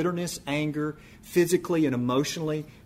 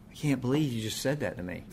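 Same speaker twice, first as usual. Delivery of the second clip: hurt disbelief; 2 semitones lower, 6 dB quieter than usual. Retold or imitated. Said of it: "other people are just like".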